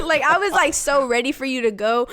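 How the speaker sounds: laughing. Real, not acted. Laughing while talking.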